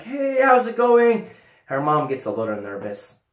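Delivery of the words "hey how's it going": louder, higher, slow and beaming; stoned overfriendly hello; overfriendly greeting. Retold or imitated. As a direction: greet the mom way too happily. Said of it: "I'm like".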